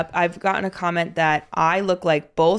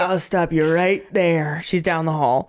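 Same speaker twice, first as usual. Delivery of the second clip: polite dismissive; slower than usual. Retold or imitated. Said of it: "And I'd be like".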